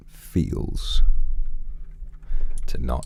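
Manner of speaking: put-on deep voice. Streamer musing on being alone, in a put-on deep voice. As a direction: draw it out like a showy deep-voiced villain. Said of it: "do you guys like my deep voice".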